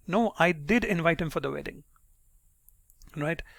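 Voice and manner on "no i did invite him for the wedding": firm denial with "did" stressed; insistent stress on "did"; emphatic did. Shown as a demonstration. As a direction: lean on "did" to contradict. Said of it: "using the emphatic do".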